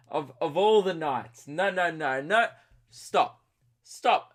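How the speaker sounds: exasperated protest. Retold or imitated. Retold protest at friend's question.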